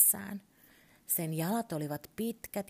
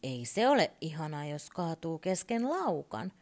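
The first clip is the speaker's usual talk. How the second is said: irritated; 3 dB louder than usual. Acted. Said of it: "Turpo sanoi ärtyneesti".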